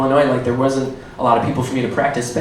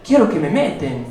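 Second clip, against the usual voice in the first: higher, hammed-up Spanish stand-up persona; alter ego Nicolas; 6 semitones higher than usual. Comic in his alter ego greets the crowd as Nicolas. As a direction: play the cocky gringo comic Nicolas. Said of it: "Back to Nicolas".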